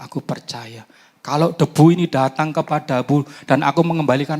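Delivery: fervent prayer with rising force; spoken prayer. Shown as a demonstration. Preacher shows the church how to pray, fervent prayer voice. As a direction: pray out loud to God with conviction.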